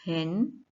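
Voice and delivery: "हेन" drawn out as its own syllable; single syllable. Shown as a demonstration. Teacher breaking comprehension into syllables, "हेन" said slowly and separately. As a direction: sound out "हेन" slowly, alone. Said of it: "फिर होगा".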